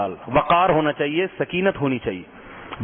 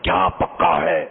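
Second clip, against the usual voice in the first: drawn-out shouted demand, played for effect; hammed-up husband's yell; mock shouting; much slower than usual. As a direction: act a husband yelling his question slowly. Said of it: "چیخ کے بولتا ہے".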